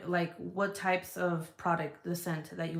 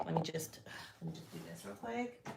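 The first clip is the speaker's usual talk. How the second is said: very soft, half-whispered aside; muttering to oneself; 11 dB quieter than usual. Real, not acted. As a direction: murmur it while busy with something. Busy with phone, talking to herself.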